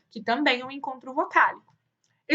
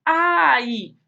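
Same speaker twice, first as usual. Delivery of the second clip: louder, drawn-out pretend ouch; mock cry of pain; 3 semitones higher, 6 dB louder than usual. Teacher voicing a little boy who fell, mock ouch. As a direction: act out a fallen child's ouch. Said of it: "o menininho caiu, o que que ele fez".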